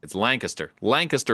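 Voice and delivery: "Lancaster" said as LANK-uh-ster; corrected local pronunciation. Shown as a demonstration. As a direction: stress the start of "Lancaster" and swallow the middle. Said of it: "I'll get Lancaster correct now".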